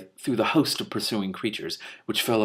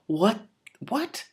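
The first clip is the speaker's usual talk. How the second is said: startled what; 11 semitones higher than usual. Acted. Lore master startled by voice.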